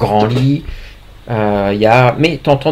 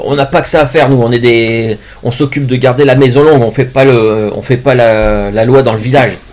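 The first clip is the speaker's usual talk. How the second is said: gruff guard; 3 dB louder than usual. Acted. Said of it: "qui dit".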